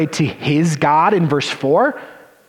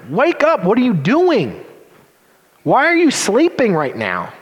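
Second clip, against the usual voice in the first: higher, urgent rebuke; rebuking captain; 6 semitones higher than usual. Acted. Pagan captain shaking sleeping Jonah awake, higher urgent rebuke. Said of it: "The pagan captain rebukes him".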